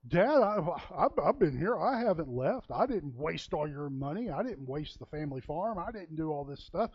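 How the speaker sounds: a sulky son pleading his case to dad; whining elder son. Retold or imitated. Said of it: "He whines".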